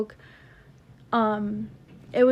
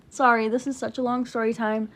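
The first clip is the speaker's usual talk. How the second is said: out of breath. Real, not acted. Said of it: "I'm out of breath".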